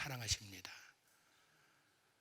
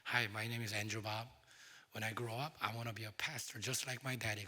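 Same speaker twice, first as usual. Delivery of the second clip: put-on child's announcement; 2 semitones lower, 4 dB quieter, much slower than usual. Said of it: "딱 왔더니".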